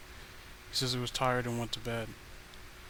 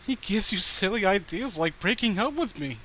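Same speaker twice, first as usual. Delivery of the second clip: creepy sweet voice; 5 semitones higher, 5 dB louder than usual. Acted. Danielle explains the murder.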